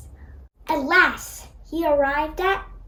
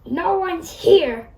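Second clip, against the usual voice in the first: grumbled; 2 semitones higher, slower than usual. Acted. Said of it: "he grumbled".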